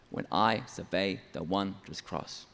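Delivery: "When I survey the wondrous cross" paced slowly on its strong beats; stressed syllables. Shown as a demonstration. Songwriter shows where a hymn's strong syllables fall, measured stress. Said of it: "You can hear where the strong syllables are".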